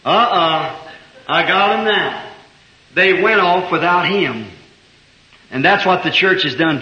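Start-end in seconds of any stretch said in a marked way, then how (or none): 0.1-2.2 gloating devil. Retold or imitated. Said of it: "the devil ... said".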